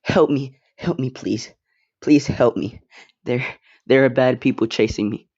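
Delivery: mild mock scream for help; half-hearted acted cry for help; Deku/character. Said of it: "And Deku would scream".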